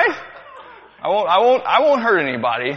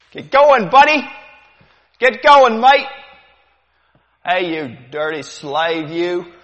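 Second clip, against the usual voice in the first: loud, higher barked commands; slaver barking orders; 5 semitones higher, 8 dB louder than usual. Acted. Slave-ship sailor driving slaves, loud barking. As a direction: drive the slaves like a brutal sailor. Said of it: "The demonstration ... as realistic as possible".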